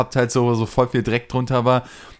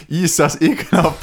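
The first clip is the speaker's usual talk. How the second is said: higher, mock-revolted voice; imitated disgusted woman; 5 semitones higher, 3 dB louder than usual. Woman passing the homeless man, imitated disgust. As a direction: recoil as a revolted passer-by. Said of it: "eine Frau vorbei und meint halt auch so".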